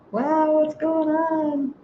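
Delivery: high, slow, bemused; drawn out, baffled at herself; puzzled wow. Real, not acted. Host losing her point mid-video, high and bemused. Loses her train of thought.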